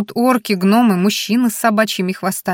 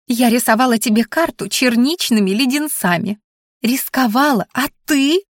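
higher-pitched scolding; indignant creature voice; 5 semitones higher than usual. A narrator's reading. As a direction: scold in a higher voice, building to the question. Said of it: "гневно поджала мохнатые губы".

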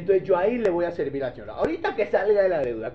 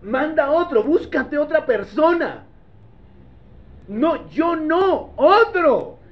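higher, slow, drawn-out pleading; sincere plea; 4 semitones higher, slower than usual. Acted. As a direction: open your heart and beg. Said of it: "se pone sincero y dice".

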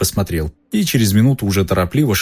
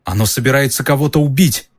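alarmed shout; 6 semitones higher than usual. Acted. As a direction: yell it as you break into a run. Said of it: "крикнул он".

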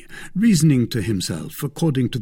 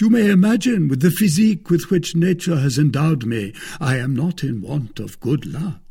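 lightly raised gallant voice; a boastful musketeer, lifted high; Porthos voiced high; 6 semitones higher, 5 dB louder than usual. A narrator's reading. Musketeer answering the lawyer's wife, pitched up and proud.

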